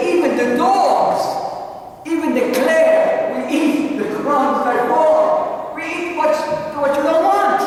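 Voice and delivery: high, loud, slow pleading; pleading woman. Acted. Preacher voicing the Canaanite woman begging Jesus, high and slow. Woman's humble plea retold.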